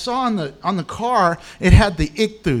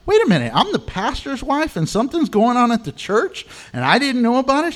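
higher, startled and puzzled; wife taken aback at church; mock startled wife; surprised pastor's wife; 5 semitones higher than usual. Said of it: "she was like".

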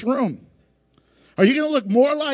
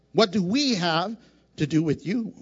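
"we" pushed hard in "what do we have to do with you"; stress on we; 4 semitones lower than usual. Shown as a demonstration. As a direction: lean on "we" to show plural.

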